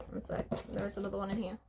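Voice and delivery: quick whispered aside; whispering aside. Real, not acted. Rummaging in bag.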